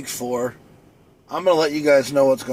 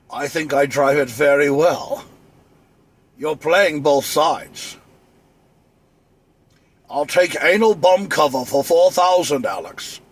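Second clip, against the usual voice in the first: Sean Connery. Retold or imitated. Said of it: "I can sound like Sean Connery".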